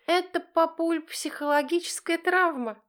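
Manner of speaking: high, loud cheeky announcement; insolent. Acted. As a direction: throw it at dad with a smirk. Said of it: "нагло заявляет она".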